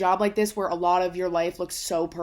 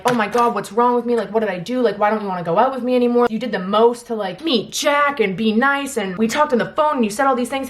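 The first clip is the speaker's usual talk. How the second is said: loud, higher mock-desperate questioning; hysterical old self; 3 semitones higher, 6 dB louder than usual. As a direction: imitate your old self pleading in a panic. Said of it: "Old me would be fucking hysterical".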